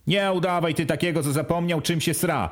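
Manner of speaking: szybko, ze złością, wyżej; rozzłoszczony stryj łaja Kazia. Acted. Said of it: "Rozłościli się Domin". (stryj Domin rozzłoszczony strofuje bratanka, szybko i wyżej)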